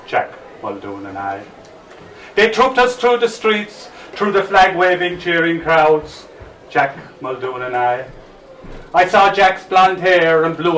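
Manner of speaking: measured, dramatic ballad recital; poem recital. Acted. Recites his anti-war poem.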